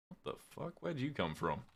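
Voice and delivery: soft breathy startled gasp of a curse; startled whisper. Real, not acted. Streamer startled by a mob on screen, whispered curse. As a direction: whisper it in surprise.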